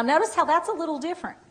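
normal talking voice

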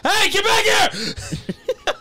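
calling out. Acted. Calling after game enemy.

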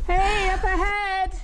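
calling out. Real, not acted. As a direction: call out loud and slow up the trail. Calling to hikers ahead.

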